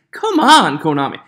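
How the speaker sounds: exasperated complaint at the company. Real, not acted. Frustrated at card errata.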